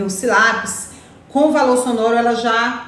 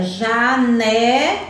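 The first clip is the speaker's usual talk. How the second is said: janela stretched slowly with a rising end; slow, drawn-out janela; much slower than usual. Shown as a demonstration. Teacher stretches janela so children find the syllable. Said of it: "ele fica aqui na segunda sílaba".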